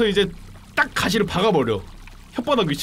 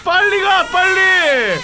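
shouting; 12 semitones higher, 6 dB louder, much slower than usual. Real, not acted. Urging fish to hurry.

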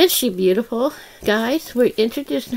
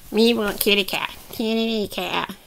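toy creature; 3 semitones lower than usual. Pretend. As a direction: play a hungry little puppet. Voices Grogu doll wanting cat.

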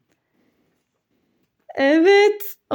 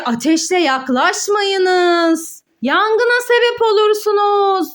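reading the warning; 3 semitones higher, slower than usual. Acted. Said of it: "Diyor ki".

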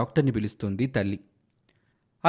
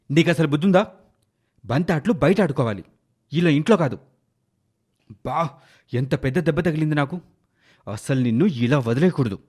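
angry father; 3 dB louder than usual. Acted. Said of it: "అతనికి చాలా కోపం వచ్చేస్తోంది".

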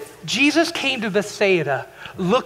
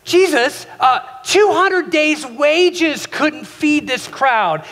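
exasperated; 5 semitones higher, much slower than usual. Retold or imitated. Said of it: "like, exasperated".

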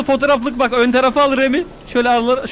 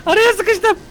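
laughing; 9 semitones higher, much slower than usual. Real, not acted. Stuck in game, laughing.

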